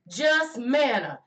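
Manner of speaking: slow, scornful "Just manna"; drawn-out sneer at "Just manna"; dismissive. Retold or imitated. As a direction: shrug off the gift. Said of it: "they minimized and discounted".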